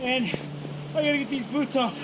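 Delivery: soft, shivering with cold; in ice cold water. Real, not acted. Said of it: "I'm frozen".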